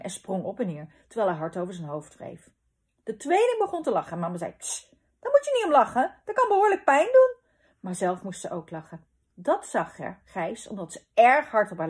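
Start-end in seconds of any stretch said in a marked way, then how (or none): 4.6-7.4 high, loud motherly telling-off; scolding mother. A narrator's reading. Mama to the giggling twins, scolding. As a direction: shush them, then reprove in a raised voice.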